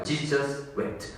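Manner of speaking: each word drawn out, very slow and soft. Shown as a demonstration. Preacher savouring the two-word verse, very slow. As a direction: let both words hang slowly. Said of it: "딱 두 단어밖에 없어요".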